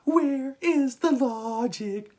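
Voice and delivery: exasperated. Real, not acted. Exasperated rant about Sandman.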